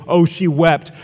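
shrugging, offhand "Oh, she wept"; dismissive reading. Shown as a demonstration. Preacher mocks a weak translation, dismissive. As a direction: toss off "she wept" as if it's nothing. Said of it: "it's such an inadequate translation".

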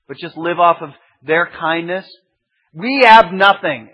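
protesting disciples. Retold or imitated. Disciples pleading with Jesus that they have nothing, loud. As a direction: plead your empty hands.

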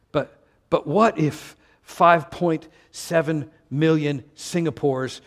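ordinary talk, nothing marked

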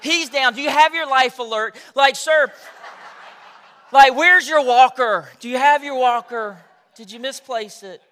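hammed-up concerned lady fussing over an old man; lady at the pump talks to him like he's elderly; pitying lady. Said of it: "it just basically was like".

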